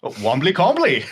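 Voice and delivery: lively mock sports-commentator call; commentary voice. Shown as a demonstration. Player gives his rendition for the host, commentary voice. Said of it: "I'd like to hear it in the commentary voice".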